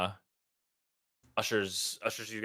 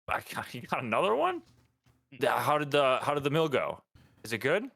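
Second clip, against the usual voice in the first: lightly voiced character, pitched up; Escobar's greeting; 5 semitones higher than usual. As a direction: ask eagerly in a higher voice, lightly acted. Game master voices Escobar's greeting.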